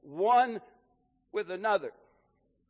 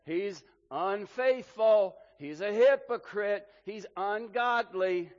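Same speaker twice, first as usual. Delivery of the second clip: mock accusing world; 2 semitones higher, 4 dB louder, slower than usual. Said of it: "where the world then says".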